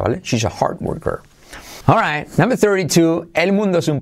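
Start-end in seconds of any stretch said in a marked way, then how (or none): 0.2-1.2 barely-voiced whisper with "hard" dropping its d. Shown as a demonstration. Teacher whispering the sentence, d in hard nearly silent. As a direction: breathe it out, swallowing the d in "hard". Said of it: "La D de hard, veis que casi no se pronuncia".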